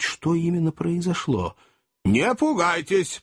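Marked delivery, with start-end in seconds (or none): 2.0-3.2 mild repeat. Acted. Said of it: "повторил хозяин".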